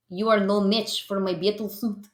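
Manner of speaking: put-on mild Russian villain accent; a hint of a Russian comic villain; Russian accent, lightly voiced. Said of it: "I'm leading into the Russian accent".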